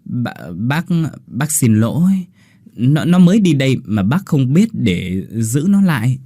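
stammering, awkward apology; hesitant, embarrassed. Acted. Mother awkwardly apologizes to the suitor. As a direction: stumble over the excuse. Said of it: "ngập ngừng ngại ngùng nói".

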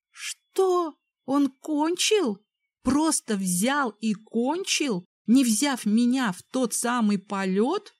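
high, slow, incredulous; outraged he finished already; indignant disbelief. Acted. Her inner outrage at him.

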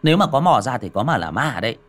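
tired dismissal. Acted. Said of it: "Xiển mệt mỏi nằm xuống mà đáp".

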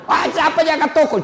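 worried shopkeeper jolting up; startled panic. Retold or imitated. Dying man panics again.

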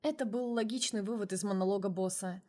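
ordinary delivery

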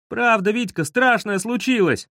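high-pitched, urgent appeal; desperate pleading. A narrator's reading. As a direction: beg a friend to believe you. Pleading to be believed.

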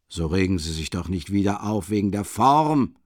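a hint of sly mockery; sly mocking smile. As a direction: soothe him with a smirk. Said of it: "mit dem früheren verschmitzten Spottlächeln".

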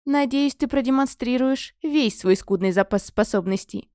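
slow, haughty arrogance; arrogant. Acted. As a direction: look down your nose. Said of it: "высокомерно заявила".

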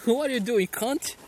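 imitating an Australian accent in English; Aussie bloke accent. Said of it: "Sotaque australiano". (sotaque australiano)

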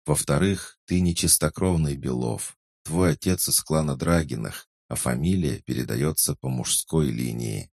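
a hint of a calm helper voice; Alice voice. Alice answers in the head.

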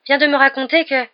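high, loud, urgent delivery; excited, breathless report cut short; out of breath. A narrator's reading. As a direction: hurry to break the news, mildly winded. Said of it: "dit Harry hors d'haleine".

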